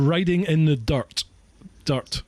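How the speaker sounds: DIRT said with a Scottish rolled R. Real, not acted. Repeating it for a puzzled listener who heard "dark", Scottish rolled R. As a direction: say "dirt" with a tapped Scots R. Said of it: "It's just the way I speak".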